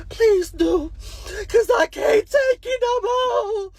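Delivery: high, loud, slow desperate plea; high pleading shout of a kid who gives up. Retold or imitated. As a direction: beg her to take over, at the end of your rope. Kid frustrated at game level.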